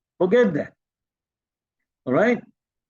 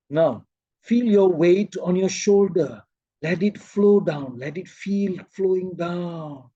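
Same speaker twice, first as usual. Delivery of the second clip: guided relaxation. Shown as a demonstration. Teacher guiding weight off the shoulders, slowing meditation voice. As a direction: let the words flow down and fade. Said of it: "then I teach them".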